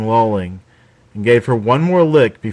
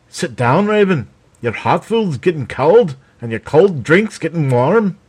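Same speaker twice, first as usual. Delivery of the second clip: said with a smile, higher; smiling; 6 semitones higher than usual. A narrator's reading. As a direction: coax her back with a smiling tone.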